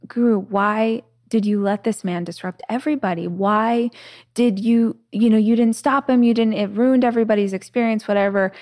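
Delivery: retold protest, mounting exasperation; exasperated assistant. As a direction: plead with mock exasperation. Acted upset assistant questioning guru.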